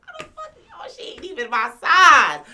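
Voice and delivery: high, loud outraged cry; outraged yell. Retold or imitated. Complaining to the audience about her size, outraged yell. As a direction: blow up in disbelief.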